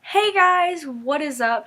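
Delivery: high, bright-pitched hello, calmer close; retake greeting. Real, not acted. Vlogger retaking her intro, up-pitched greeting. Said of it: "let me try again".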